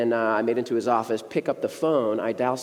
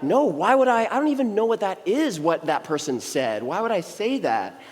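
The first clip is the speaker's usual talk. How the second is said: mock innocence; 5 semitones higher than usual. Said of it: "play total dubious innocent".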